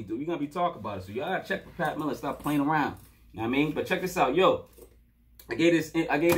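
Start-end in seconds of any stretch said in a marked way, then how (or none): 0.0-0.2 hyped shout. Real, not acted. Hyped about album.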